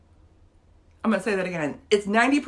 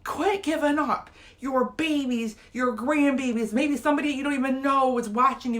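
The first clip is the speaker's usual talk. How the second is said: teary plea to her viewers; getting emotional; 4 semitones higher than usual. Real, not acted. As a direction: hold back real tears as you urge them on. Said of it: "I'm gonna get emotional on here".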